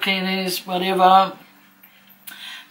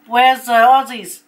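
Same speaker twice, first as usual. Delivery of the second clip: entertainer's loud, higher drawn-out crowd call; imitating shouting; 4 semitones higher, 6 dB louder, slower than usual. Entertainer asks the crowd for Aussies, shouting. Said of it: "he starts shouting out".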